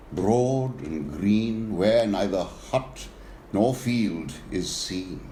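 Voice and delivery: slow, measured verse reading with lingering phrase ends; poem recitation. A narrator's reading. Reciting a fable of an elephant and Tragopan, slow verse reading. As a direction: recite it slowly, letting each image settle.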